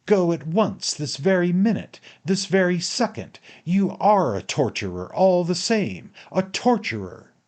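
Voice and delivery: loud, high, driving commands; heated, insistent outburst; furious roar. A narrator's reading. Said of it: "I roared".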